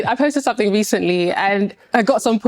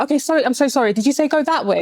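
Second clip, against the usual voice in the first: higher, re-enacted polite apology; politely apologetic; 4 semitones higher than usual. Stopping a stranger for help, politely apologetic. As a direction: act out asking politely for directions. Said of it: "I'm like".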